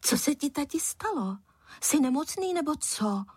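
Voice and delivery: put-on high, wondering kid voice; a puzzled son asking his father; surprised boy. A narrator's reading. Son puzzled by his father's mood, high and wondering. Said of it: "podivil se Filip".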